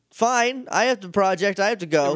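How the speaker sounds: high, clipped evasions; evasive brush-off. Retold or imitated. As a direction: dodge the question. Quoting evasive Billy.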